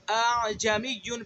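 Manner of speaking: اعجمیون with the second hamza eased, slow; softened second hamza. Shown as a demonstration. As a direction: ease the second hamza in اعجمیون gently, drawn out. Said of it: "دوسرے حمزہ کے اندر تسہیل کرنی ہے".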